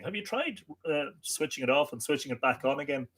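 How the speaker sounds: a hint of a patient IT person; mock IT helpdesk. Host quotes IT people to a viewer, light mock helpdesk voice. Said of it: "As all of the I T people are so fond of saying".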